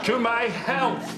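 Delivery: hammed-up king's toast. Actor hams the toast.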